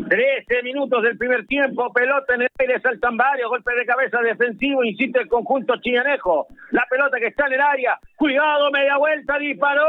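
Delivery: radio football call of a shot; excited play-by-play. Real, not acted. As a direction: build excitement as the attack nears goal. Live play-by-play.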